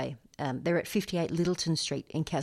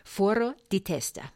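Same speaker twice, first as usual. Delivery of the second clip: put-on a playful stab at an Italian accent; 3 semitones higher than usual. DJ announcing the track title in a mock Italian accent. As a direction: roll it out like a proud Italian learner. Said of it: "in my best Italian accent".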